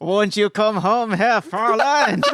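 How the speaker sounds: put-on slow Austrian accent, a touch high; lightly done Austrian accent. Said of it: "That's Austrian".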